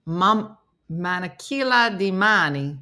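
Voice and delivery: Spanish with an Italian lilt; lightly Italian-accented Spanish; Italian-sounding Spanish. Shown as a demonstration. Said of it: "I make everything sound Italian".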